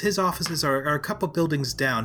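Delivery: flustered gnome maid. Acted. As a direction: correct them in a fluster, as a little maid.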